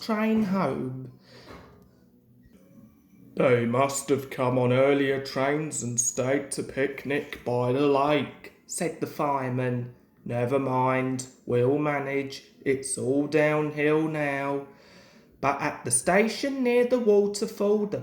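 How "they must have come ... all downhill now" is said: fireman voice. Acted.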